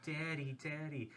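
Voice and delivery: soft, lightly voiced nagging kid; pestering child. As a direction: quietly imitate a kid tugging for attention.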